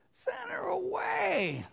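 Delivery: high, slow breathy whisper; mock secretive whisper; hoarse whispered demand. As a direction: hiss the plea to send her off. Disciples voiced in a whisper.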